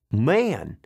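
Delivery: put-on trucker's complaint; griping animal hauler. Trucker complaining about the animals' smell, disgusted. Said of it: "one of the truckers said".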